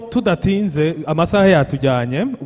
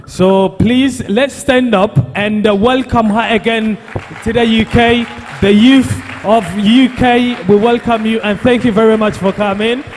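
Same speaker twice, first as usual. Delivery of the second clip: rising, louder hype welcome; excited welcome; 3 semitones higher, 3 dB louder than usual. Real, not acted. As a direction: pump up the crowd for the guest. Host welcomes guest speaker to stage.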